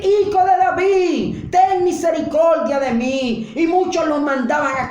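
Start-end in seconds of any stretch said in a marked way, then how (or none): 0.0-3.5 higher, louder plea; a blind man begging loudly; crying out loud. Acted. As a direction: call out the plea, drawing out Hijo. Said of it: "empezó a clamar".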